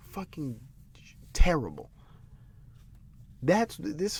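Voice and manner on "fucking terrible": whisper. Real, not acted. Disgusted outburst at commentary.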